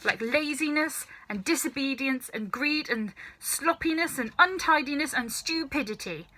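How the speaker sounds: put-on a stern old grandmother lecturing; scolding old grandma. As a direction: nag him like a sharp old granny.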